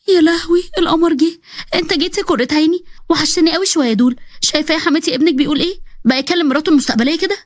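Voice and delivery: put-on coy young woman delighted to see him. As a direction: swoon over him, high and playful. Zeina gushing at Nabil.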